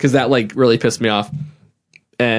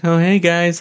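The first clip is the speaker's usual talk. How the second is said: higher-pitched mock impression of a man; imitating his speech; 4 semitones higher, slower than usual. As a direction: put on his way of greeting people. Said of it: "that's how he talks".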